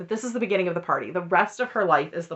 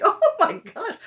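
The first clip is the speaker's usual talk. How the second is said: much higher, louder disbelief; shocked gasp; 13 semitones higher, 5 dB louder than usual. Retold or imitated. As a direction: react stunned at the drama. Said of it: "I was like".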